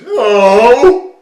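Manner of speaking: loud, high, panicked Homer yell; Homer Simpson's panicked no. Retold or imitated. Imitating his old Homer impression, a loud panicked yell. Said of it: "trigger sentence for the speaker doing the Homer Simpson impression".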